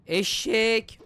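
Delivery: loud, high drawn-out name-calling; exasperated insult. Pretend. Fed-up babysitter insulting the baby, loud and exasperated. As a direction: yell the insult out.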